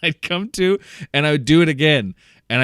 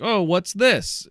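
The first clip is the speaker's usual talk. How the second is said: high, slow, mock-puzzled question; hammed-up confusion to lighten the mood; fake perplexed; 7 semitones higher, much slower than usual. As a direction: act baffled on purpose, drawn out and higher. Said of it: "I act fake perplexed".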